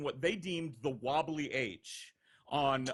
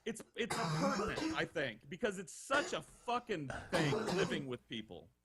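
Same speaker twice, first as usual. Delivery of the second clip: laughing; 2 semitones higher than usual. Real, not acted. Laughing aside about story.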